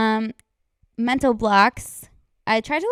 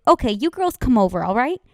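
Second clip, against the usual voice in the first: sounding like Tusha; 3 semitones higher, 3 dB louder than usual. Retold or imitated. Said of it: "You just sounded like Tusha".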